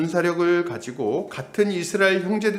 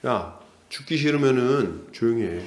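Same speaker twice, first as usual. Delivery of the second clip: bullying threat; 4 semitones lower than usual. Retold or imitated. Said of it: "전형적인 갑질을 하는 거예요".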